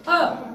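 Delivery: अ as a brief 'uh', like mug's vowel; short, isolated अ; short U sound. Shown as a demonstration. Teacher reminding the class of U's sound, short अ. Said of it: "यू की sound क्या बताई".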